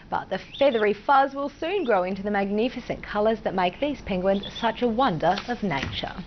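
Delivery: steady, even newsreader delivery; news read. Acted. Anchor presenting a story to viewers, news read. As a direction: read it like a nightly bulletin.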